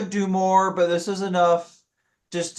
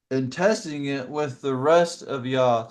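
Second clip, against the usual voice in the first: talking through hiccups; 3 semitones lower than usual. Real, not acted. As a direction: hiccup interrupting the words. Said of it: "I'm hiccuping".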